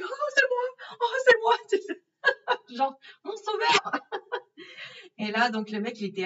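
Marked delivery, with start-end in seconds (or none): 0.0-1.5 high-pitched delighted squeal, loud; thrilled squeal. Real, not acted. Seeing her name on the taximan's sign, a high joyful squeal. 2.2-5.2 slow, laughing and high. Real, not acted. Relieved to find her taximan, slow high laughing words.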